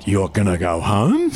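slow retold question of disbelief; slow, incredulous rising question. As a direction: draw out the question in mock disbelief. Retold disbelief at star leaving.

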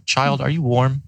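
Morozko asking. Acted. Morozko asks the freezing girl in the forest, lightly voiced. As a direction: ask it like a frost spirit testing the child. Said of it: "he stops first and he says".

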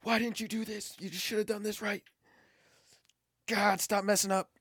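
high, mock-angry yell at a kid; imitating dad yelling. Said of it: "were yelling at him".

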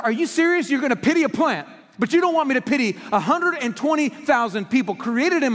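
God calling out Jonah, raising his voice in disbelief. Retold or imitated. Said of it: "He said".

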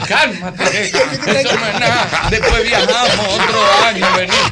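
mock-tearful consoling, rising high; imitated crying. Consoling the boy after the refusal, mock-tearful. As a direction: soothe him while pretending to wail. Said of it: "dando gritos los dos".

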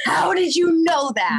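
high, amazed question from a spooked patient; patient asking in startled disbelief; freaked-out patient. Retold or imitated. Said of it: "it freaks patients out".

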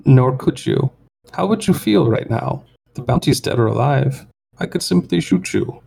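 high, menacing alien whine; whining alien voice. Acted. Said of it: "a high kind of whining voice".

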